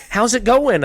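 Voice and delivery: very loud, high mock cheery call; mimicked boss checking in. Co-host checking on the struggling editor, mimicked loud and breezy. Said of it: "She's like".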